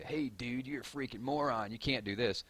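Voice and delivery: lightly put-on voice for a mock insult; mock heckler. Streamer mimicking viewers who send him insults, mock heckling.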